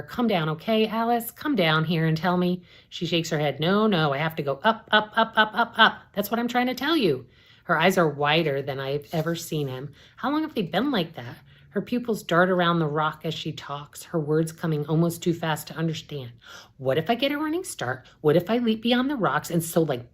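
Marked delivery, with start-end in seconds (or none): 0.0-2.6 high, loud call up the cliff; yelling up. Acted. Narrator calling up to her sister on the cliff. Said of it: "I yell up to her". 3.6-7.3 high, excited, racing; giddy and unhinged; manic. Acted. Sister calling down from the cliff, manic. 16.8-19.5 manic excitement. Acted. Manic sister's idea.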